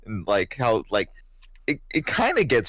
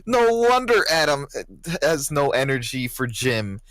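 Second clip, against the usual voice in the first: high squeaky coach; 12 semitones higher than usual. Retold or imitated. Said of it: "she's just like".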